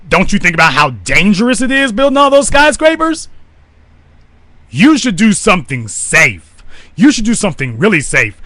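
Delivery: put-on high, sing-song condescension, like talking to a small child; mock patronizing master. An oppressor talking down to Africans, high patronizing coo. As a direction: coo it like a smug overseer.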